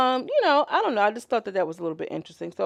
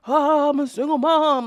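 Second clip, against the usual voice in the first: higher put-on whiny sympathy; mock sympathy voice; 6 semitones higher, 5 dB louder than usual. Mocking people who play the sympathy card, put on. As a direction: fake pitiful single mom.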